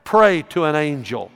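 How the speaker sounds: loud, hard warning, stressing ever; a pastor sternly forbidding praying to angels. Real, not acted. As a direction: bark the warning at the congregation. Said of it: "Hey, let me stop right there".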